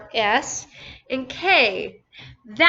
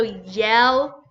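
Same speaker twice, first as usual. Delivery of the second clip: yellow slowly parted as yel, oh; teacher dividing yellow with a pause midway; broken into syllables. Shown as a demonstration. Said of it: "Two syllables or two beats".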